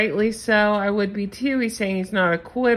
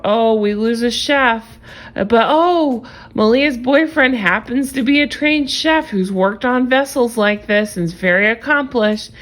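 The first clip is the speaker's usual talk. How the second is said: sarcastic mock announcement. Mocking the staged chef storyline.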